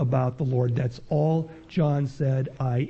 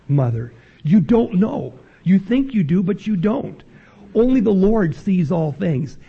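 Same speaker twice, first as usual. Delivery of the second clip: preaching; 4 dB louder than usual. Acted. Preacher presses the congregation.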